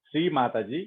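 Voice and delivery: measured prayer with long pauses between phrases; led prayer. Acted. Meditation leader addressing Sri Mataji for blessing, prayerful. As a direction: pray aloud, phrase by phrase.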